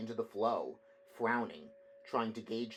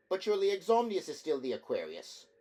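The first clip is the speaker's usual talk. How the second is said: indignant surprise; 7 semitones higher, 5 dB louder than usual. A narrator's reading.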